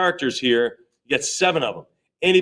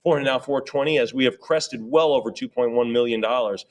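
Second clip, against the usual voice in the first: brisk auctioneer chant of numbers; auction bid calling. Acted. Auctioneer calling bids to the room, rhythmic chant. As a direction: keep the bids rolling.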